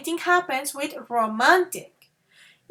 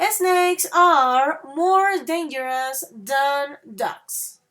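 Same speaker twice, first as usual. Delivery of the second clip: slowly, leaning on more; slow model repeat; slower than usual. Shown as a demonstration. Teacher repeating for students, stressing more. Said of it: "Listen that again".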